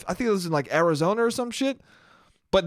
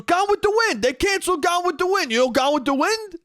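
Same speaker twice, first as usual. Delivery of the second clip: mock outraged shout; 12 semitones higher than usual. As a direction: yell it like a scandal. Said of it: "He goes".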